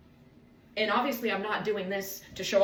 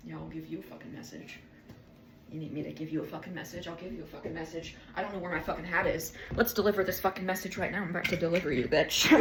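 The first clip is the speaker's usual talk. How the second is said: low, fast mock threat; mock tough talk; 5 semitones lower, faster than usual. Vlogger acts out a threatening messenger, low and fast. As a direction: play a hard street tough, lightly. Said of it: "know how to deliver a message".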